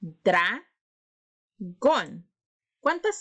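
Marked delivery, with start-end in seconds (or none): 0.0-0.7 "Dragón" in two separate beats, a clear pause in the middle; split into syllables. Shown as a demonstration. Teacher showing pupils the syllables, "Dragón" split apart with a pause. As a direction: break "Dragón" after the first syllable, lifting it before the gap. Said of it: "separar en sílabas la palabra dragón".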